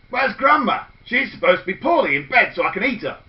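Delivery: the wolf cheated of his meal; grumbling wolf; puzzled hungry wolf. Acted. Wolf finds grandma's bed empty.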